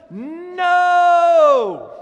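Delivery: a long, high shouted no; cutting shout. Acted. Paul to objecting believers, a high shouted no. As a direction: slam the door on the excuse.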